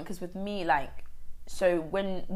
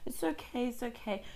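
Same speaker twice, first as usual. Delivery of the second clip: self-calming; 5 dB quieter than usual. Retold or imitated. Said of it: "my own coping mechanism".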